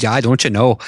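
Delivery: light imitation of a Northern Minnesota accent. Co-host showing how everyone back home talks, Northern Minnesota accent. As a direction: put on rounded Minnesota vowels briefly. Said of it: "I think of the Northern Minnesota accent".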